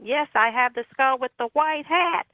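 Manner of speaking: high, slow mock yell; retold phone scream. Answering a man she thinks is deaf, high mock scream. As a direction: imitate hollering word by word into a phone. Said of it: "I screamed in the phone".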